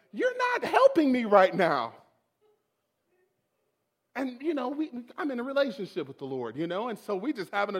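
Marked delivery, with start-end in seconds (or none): 0.1-1.9 slow, raised-voice reproach to God; upset reproach. Retold or imitated. Upset worship leader blaming God, exasperated. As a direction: stretch out the accusation, exasperated. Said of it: "I was just so upset".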